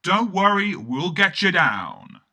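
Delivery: loud call up the crane, slowing on the second half; shouting up reassuringly. Retold or imitated. Narrator shouting up to the stuck sprite, loud and reassuring. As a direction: shout up, calm him down. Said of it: "I shouted up to the sprite".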